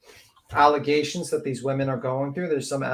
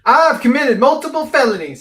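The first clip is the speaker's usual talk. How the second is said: loud, high-pitched parody echo; mock outburst; 10 semitones higher, 10 dB louder than usual. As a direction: belt it out high, mimicking the clip. Echoing the played parody clip.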